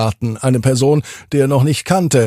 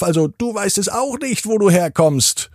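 higher, strange scarecrow voice; 8 semitones higher than usual. A narrator's reading. Scarecrow greets Dennis in the garden, higher storybook voice. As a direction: introduce yourself as a friendly scarecrow. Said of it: "meint nun Jakomi".

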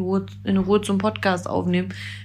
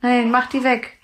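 scared pleading; 4 semitones higher than usual. Real, not acted. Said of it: "ich krieg richtig Schiss".

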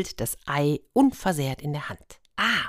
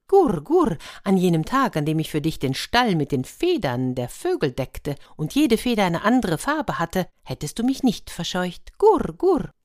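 cooing dove; 3 semitones higher than usual. Acted. The hen dove speaks again.

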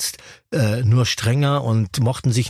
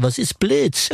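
the Chappie voice; 3 semitones higher, much slower than usual. Retold or imitated. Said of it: "und diese Stimme".

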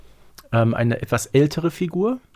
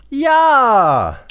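high, loud cry of triumph; triumphant yes; 12 semitones higher, 8 dB louder than usual. Real, not acted. Co-host shouting yes at a correct guess. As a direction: shout it out, delighted.

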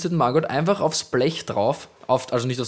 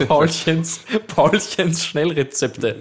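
announcer voice; 3 semitones higher, much slower than usual. Acted. Announces show segment.

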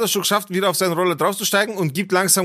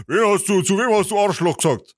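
confrontational villager; 3 semitones higher than usual. Retold or imitated. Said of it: "so die Nummer".

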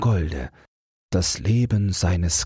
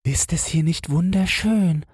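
high, sweet insect voice; delighted little ladybird; 12 semitones higher than usual. Acted. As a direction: marvel in a tiny high voice. Little ladybird admires the garden. (entzücktes Marienkäferchen, hohe Stimme)

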